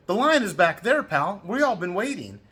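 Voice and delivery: loud, high telling-off; stern retold rebuke. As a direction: bark at the line cutter to get back. Confronting line cutter in Pompeii.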